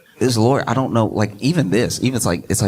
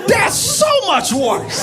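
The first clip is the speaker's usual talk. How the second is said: slow, higher, laughing it out; slower than usual. Real, not acted. Host reacting to a rapper's comeback, slow and laughing. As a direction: spill the line out between laughs.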